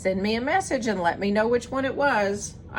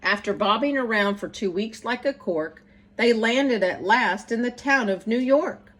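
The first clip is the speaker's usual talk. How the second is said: put-on lively rhyming read-aloud for children; bouncy, sing-song story reading; storybook narration. A narrator's reading. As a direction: read it like bedtime verse to kids. Reads picture book aloud.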